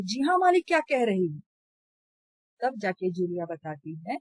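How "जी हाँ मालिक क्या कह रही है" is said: higher, louder mockery of her reply; angry mocking repeat. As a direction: throw her words back, exasperated. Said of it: "फिर गुस्सा आता है". (गुस्से में नकल उतारते हुए)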